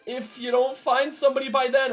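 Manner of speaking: high, incredulous mock reaction; amused, retold bewilderment; baffled reluctance. Acted baffled reply to groomsman request.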